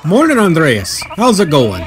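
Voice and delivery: put-on light German accent greeting; cheerful morning hello in a light German accent. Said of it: "no one in Bavaria has a German accent. I'm sorry".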